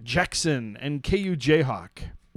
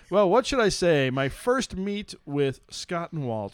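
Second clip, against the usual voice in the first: put-on German accent. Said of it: "I can't even do a German accent".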